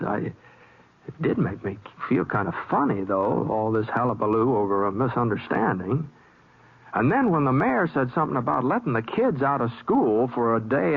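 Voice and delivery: relaxed first-person western narration; story narration. A narrator's reading. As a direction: tell it to the listener, folksy. Narrator retells over music.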